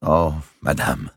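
mild, honeyed servant's protest; extreme gentleness. A narrator's reading. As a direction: sweetly soothe your mistress, drawn out. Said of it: "avec une extrême douceur".

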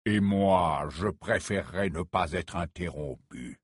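short, dry and cold; curt. Acted. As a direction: clip it off coldly. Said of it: "répliqua sèchement Scrimgeour". (sèchement, d'un ton sec)

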